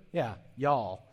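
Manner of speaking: y'all said as one drawn Texan syllable; y'all demonstrated. Shown as a demonstration. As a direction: give y'all its Texas sound. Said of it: "And this is the word".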